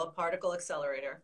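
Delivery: fast, quick nerdy rattle. Shown as a demonstration. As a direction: rattle it off like a science nerd. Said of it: "I have to say it with a real nerdy voice".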